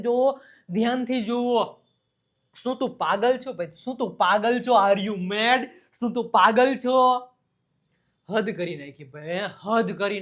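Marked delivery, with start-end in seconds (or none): 3.7-7.0 loud mock are you mad; teasing disbelief, thrown loud; mock exasperation. Teacher acting exasperated friend, loud mock disbelief.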